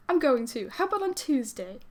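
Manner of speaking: botched attempt at Gavin's accent, lifting on the question. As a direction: try Gavin's accent and miss. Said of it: "That's not Gavin's accent at all".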